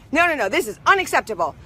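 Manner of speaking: imitating the gate agent, quick and firm; flatly refuse, mildly indignant; mock angry refusal. Gate agent rejecting the dog, a touch of mock anger. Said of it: "this lady's really in an angry state".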